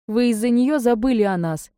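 acted weeping reproach, not real tears; bursting into tears. A narrator's reading. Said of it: "разрыдалась навзрыд".

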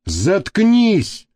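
sharp high barked "shut up". Acted. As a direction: snap the word out hard. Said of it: "рявкнул Гарик".

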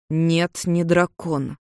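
"Нет, не дракон" said with deliberate pressure; firm emphasis. A narrator's reading. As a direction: press on "не дракон", each part set apart. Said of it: "с нажимом выговорил Джин". (с нажимом, раздельно)

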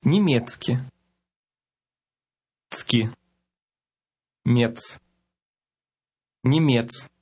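Немецки broken into Цки, Мец, Немец and rebuilt, clear and deliberate; word built from parts. Shown as a demonstration. Teacher drilling По-немецки for learners, syllable by syllable. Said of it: "Повторяйте".

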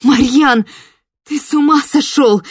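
high, loud shocked cry; shouting in shock. Acted. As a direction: yell at him in disbelief. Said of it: "крикнула я". (громкий потрясённый крик)

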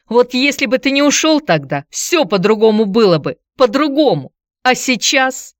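high, loud tearful reproach; bitter reproach. A narrator's reading. Antonina reproaching ex-husband for leaving, high bitter reproach. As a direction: blame him, voice up high.

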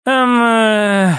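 stalling in bewilderment; stunned hesitation. A narrator's reading. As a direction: hang on the sound, lost for words. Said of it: "выдала многозначительно женщина и натурально зависла".

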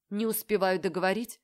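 usual speaking voice

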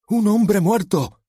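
high, slow, over-the-top shout; bawled line. Acted. Nervous actor-policeman bellows his line, high and loud. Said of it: "se desgañitó".

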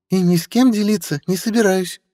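put-on high, sly young woman; young woman's voice. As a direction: tease with sly charm. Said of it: "сказано достаточно громко".

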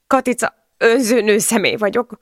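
high, distressed confession; tearful self-reproach. A narrator's reading. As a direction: blame yourself through tears. Sobbing woman blames herself. (sírós önvád)

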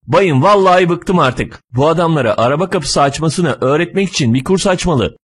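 fed-up griping. Acted. Driver complains to a fat passenger, fed-up griping. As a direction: grumble as one who has had enough. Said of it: "Bir şoför bir o şişman adam söylüyor".

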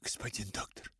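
hushed whisper, barely voiced. A narrator's reading. Father whispers urgently to the doctor. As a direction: breathe it out as a secret. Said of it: "прошептал так".

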